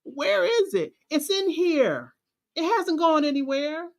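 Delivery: half-reenacted tearful pep talk to herself; retold crying. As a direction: replay the crying self-talk, pitch lifted. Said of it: "I'm literally out there crying like".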